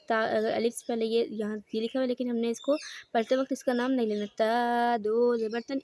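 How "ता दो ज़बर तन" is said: ता दो ज़बर तन, alif left unread; spelling demo. Shown as a demonstration. Teacher shows how to read tanween with alif. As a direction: say ता दो ज़बर तन without naming alif. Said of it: "इस तरह पढ़ेंगे".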